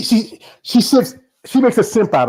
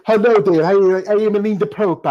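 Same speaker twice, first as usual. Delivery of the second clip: put-on Alina Popa's Eastern European accent; 3 semitones higher than usual. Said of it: "that Eastern Europe say".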